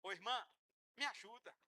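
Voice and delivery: a humble member begging a brother; timid plea for help. Acted. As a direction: ask meekly, almost shy.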